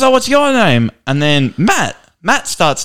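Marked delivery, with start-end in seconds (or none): 0.0-0.9 barber voice. Retold or imitated. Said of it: "He goes".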